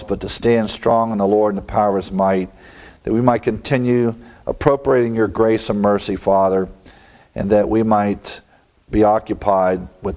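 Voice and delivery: closing prayer. Real, not acted. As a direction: pray reverently for the congregation.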